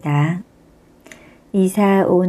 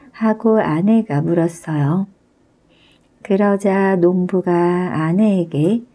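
ordinary delivery

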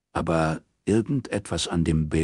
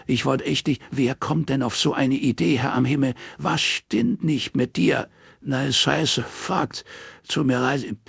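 flustered man's voice, pitched higher; panicked Morris; 8 semitones higher than usual. Acted. Morris caught out, babbling sorry to Robin on the phone. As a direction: stammer out apologies in a panic.

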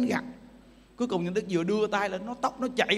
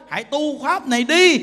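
louder, ringing call to practise; Buddha's loud exhortation; 10 dB louder than usual. Retold or imitated. Buddha urging his monks, a loud proclamation. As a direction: proclaim it to the monks with full force.

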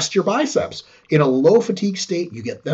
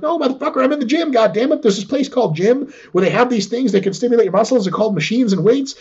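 higher, mock exasperated comeback; hammed-up indignant reply, pitched up; cocky retort; 8 semitones higher than usual. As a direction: talk down to them like it's obvious. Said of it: "And you're like".

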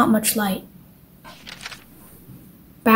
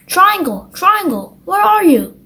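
mild raised call into the dark; 8 semitones higher than usual. A narrator's reading. Circle calling for Triangle behind the waterfall, mild call. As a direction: call out for a hidden friend. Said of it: "Circle called out".

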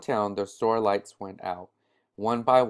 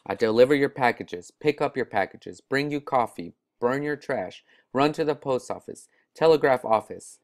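put-on excited boy; 3 semitones higher, 4 dB louder than usual. Boy listing chores excitedly.

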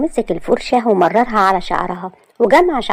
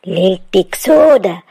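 inner threat; 3 dB louder, slower than usual. Acted. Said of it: "وقال في نفسه".

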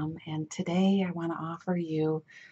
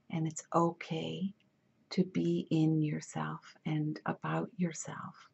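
soft-spoken, measured meditation guide with long pauses; guided meditation; 3 dB quieter than usual. Acted. Healer guiding listeners to settle into themselves, gentle guided meditation. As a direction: ease them gently inward, leaving space between phrases.

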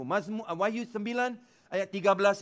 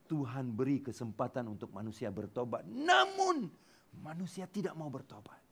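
ordinary talk, nothing marked

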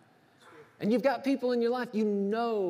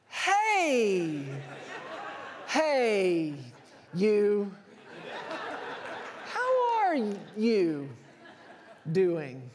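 faking recognition; much slower than usual. Retold or imitated. To a mystery caller on the phone, nervous fake-friendly laughing. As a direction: bluff like you know exactly who's calling, laughing nervously. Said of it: "You feel the pressure to be like".

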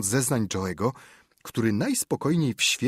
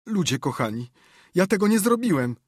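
crying plea; 9 semitones higher, 5 dB louder than usual. Acted. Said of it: "powiedział płacząc".

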